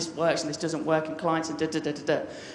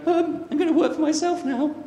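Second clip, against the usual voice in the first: nervous, trembling; 11 semitones higher than usual. Retold or imitated. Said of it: "just trembling going".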